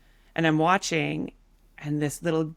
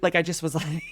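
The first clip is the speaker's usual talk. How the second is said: ordinary talk, nothing marked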